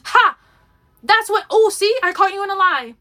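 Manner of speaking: high, loud triumphant accusation, mocking; crowing imitation of an accuser; mock gotcha. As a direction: pounce on it like catching someone out, exaggerated.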